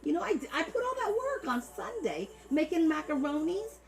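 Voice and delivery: very high, hammed-up Italian-American outrage; macaroni accent. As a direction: plead melodramatically in a mock macaroni accent. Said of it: "I'm gonna do it like the macaronis".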